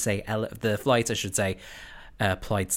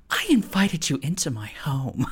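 imitating soap opera Eileen; 5 semitones higher than usual. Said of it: "she's in soap opera mode".

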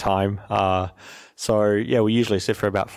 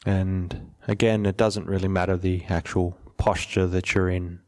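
measured, even delivery, settling at the ends of phrases; guided meditation; 3 semitones lower than usual. Real, not acted. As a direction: gently lead listeners into stillness, unhurried.

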